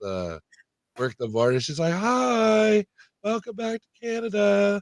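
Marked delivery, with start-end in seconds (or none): 1.9-4.8 put-on bubbly, very high, drawn-out valley girl voice. Telling friends about crossing back from Canada, imitating the border agent as a bubbly valley girl. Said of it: "some like bubbly like valley girl".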